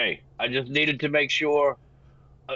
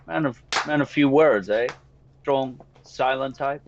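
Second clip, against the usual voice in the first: flirtatious. Acted. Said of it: "bat my eyelashes at him".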